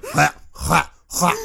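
imitated well-pump retching; mock gagging hwa sounds; retching noise. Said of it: "It was like".

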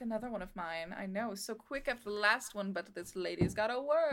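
lightly voiced fashion show host; fashion designer character. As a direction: play a busy designer handing out invitations.

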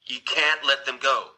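mild retold plea, stretched at the end; understated imitation of begging; pleading. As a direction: plead a little, slowing on the repeat. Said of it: "She pleads with them".

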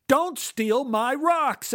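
high, very slow, stressed retort; angry reply. Acted. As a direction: spit each word back at him. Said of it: "I answered".

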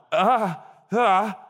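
high, startled "ah" at a sudden ache; pained gasp. Acted. Preacher acting out mystery toe pain, pained gasp. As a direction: yelp lightly in mock agony. Mimes staring at painful toe.

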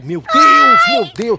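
high, loud shocked cry; shocked exclamation. Real, not acted. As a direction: gasp it out in disbelief. Shocked reaction to a memory. (exclamação chocada, aguda e alta)

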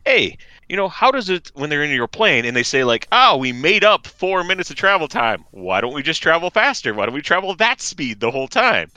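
high, bouncy comic voice; Seinfeld impression. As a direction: do a light Seinfeld bit.

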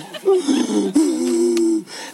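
long high hammed-up wail; mock wail. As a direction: cry it out in high, drawn-out bursts. Reenacts crying under the desk.

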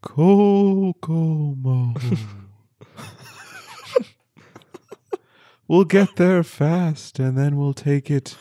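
slow eerie ghost song; low haunting voice. Pretend. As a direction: draw out the song's title eerily. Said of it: "really bringing the chills".

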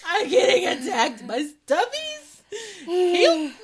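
high, loud squeal; mock distress. Friend under playful attack, mock-distressed squeal. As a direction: call for help in playful panic.

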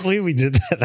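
ordinary delivery

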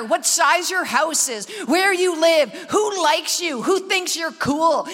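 preacher warning the church; preaching at full force. Acted. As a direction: drive the warning home. Preaching the message.

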